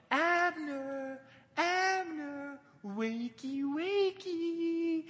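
high, drawn-out singsong call; teasing shout. Acted. David calls to sleeping Abner from a cliff, teasing shout. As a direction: call playfully to someone far away. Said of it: "He probably shouts to Abner with a twinkle".

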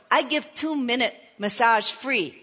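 imitated pidgin English, short phrasing. Masseur offering a free massage, pidgin English. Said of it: "He had pidgin English".

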